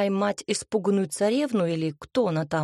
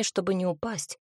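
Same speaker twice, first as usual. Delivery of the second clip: usual speaking voice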